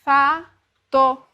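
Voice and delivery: Fa, to read as two separate syllables; split syllables. Shown as a demonstration. Teacher showing a child's choppy reading, syllable by syllable. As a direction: sound out Fa and to apart like a beginner reader. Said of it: "eu posso fazer assim".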